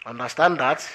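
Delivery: loud indignant outburst; shouted. Acted. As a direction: fling the words back, outraged. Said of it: "shouted Arthur".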